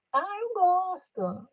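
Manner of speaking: high, drawn-out, soft "I like it"; mock half-hearted answer. Unmotivated employee claims to like the job, mock half-hearted. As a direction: imitate a feeble, unconvinced yes.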